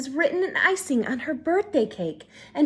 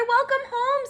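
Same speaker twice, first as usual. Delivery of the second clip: cheery greeting; 12 semitones higher than usual. Acted. Father greets daughter.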